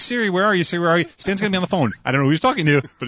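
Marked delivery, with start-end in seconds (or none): 0.0-1.1 much higher, loud frantic calling for Siri; stranded after the apocalypse, desperately calling for Siri; panicked calling. Retold or imitated. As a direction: call out to your lost phone in panic. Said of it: "You and I are gonna be like".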